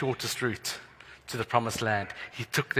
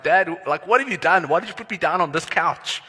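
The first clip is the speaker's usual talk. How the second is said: put-on whiny kid; 4 semitones higher, 4 dB louder than usual. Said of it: "I'm like".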